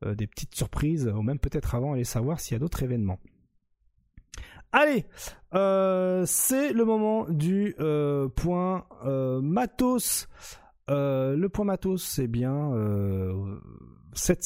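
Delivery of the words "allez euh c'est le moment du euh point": excited call. Real, not acted. Host kicks off segment.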